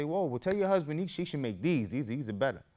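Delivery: high, lively whoa; mock enthusiastic comeback; excited retort. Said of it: "So I say".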